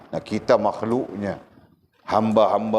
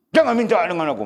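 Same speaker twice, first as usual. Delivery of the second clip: high, louder mother's refusal; angry mother; 9 semitones higher, 3 dB louder than usual. Retold or imitated. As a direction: brush the child off sharply, mother's voice. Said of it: "marah dia". (ibu menolak dengan marah, suara tinggi)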